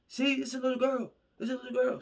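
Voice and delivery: put-on high, pushy plea holding the girl up; high, urgent plea; pleading husband. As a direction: insist it's just a little girl. Husband offering girl to rescuers.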